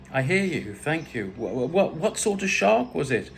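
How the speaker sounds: trying to sound calm, stammering slightly; mildly flustered, rising on the question; a touch of panic under forced cool; failed cool. A narrator's reading. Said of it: "I tried to sound cool and calm. I failed".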